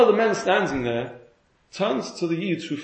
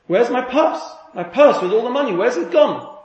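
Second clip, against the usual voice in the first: higher, louder mock scream for the lost purse; retold panicked cry; 6 semitones higher, 5 dB louder than usual. Woman finds her purse missing at the shop, mock panicked cry. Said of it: "she screams".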